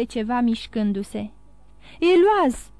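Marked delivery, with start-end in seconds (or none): 2.0-2.7 louder, higher shout of a name; raised voice, pitch falling away; repeated call. A narrator's reading. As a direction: call out harder, wanting an answer. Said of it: "repetă el".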